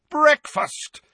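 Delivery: loud, high, happy call to breakfast; joyful shout. A narrator's reading. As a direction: announce breakfast with glee. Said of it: "said Sirius loudly and joyfully".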